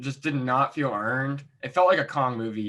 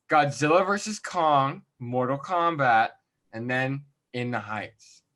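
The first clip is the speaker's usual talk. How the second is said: announcer-style redo; slower than usual. Shown as a demonstration. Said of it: "Let me do this".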